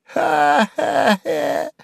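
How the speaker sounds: drawn-out mocking laugh; high sneering laughter; slow high jeering cackle. A narrator's reading. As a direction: cackle at the old man. Сувенир laughs at Харлов.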